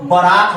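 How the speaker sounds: बारात said "ba-raat"; short first vowel, long second in बारात; corrected pronunciation. Shown as a demonstration. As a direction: open बारात on a brief "ba". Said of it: "बारात होता है".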